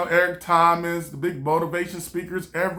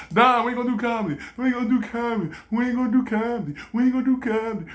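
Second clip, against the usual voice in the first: nagging inner voice; 3 semitones higher, faster than usual. Retold or imitated. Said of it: "It goes".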